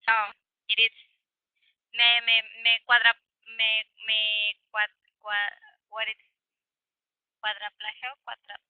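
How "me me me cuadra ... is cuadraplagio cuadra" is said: halting, stumbling over a word; real tongue-tied stammering. Real, not acted. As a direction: grope for the word in broken repeats. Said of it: "se me atoran de repente las lenguas".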